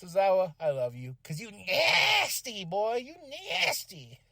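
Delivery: slow, drawn-out gushing with playful swagger; thrilled fan. Retold or imitated. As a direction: gush over the winner, stretching the words. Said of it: "I was like".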